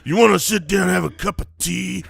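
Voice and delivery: put-on camp it up in a posh British accent; mock British. British accent mocking, teasing co-hosts over tea. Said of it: "I'm going kinda British".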